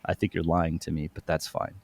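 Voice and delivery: low, soft retold retort; restrained accusation. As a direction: drop low and quietly call it out. Retold cool accusation to dispatcher.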